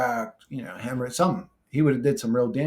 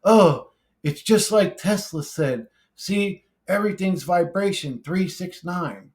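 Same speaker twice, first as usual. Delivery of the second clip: higher, drawn-out mocking quote; mock know-it-all; 5 semitones higher, 4 dB louder, slower than usual. Commenter parroting Tesla at him, mocking imitation. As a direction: parrot it slowly in a raised, put-on voice. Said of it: "before you say to me".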